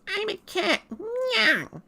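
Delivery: very high, cute cartoon cat voice; Japanese Meowth. Streamer shows how the Japanese Meowth sounds, cutely high. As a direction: squeak it like the original Japanese cat. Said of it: "Meowth goes".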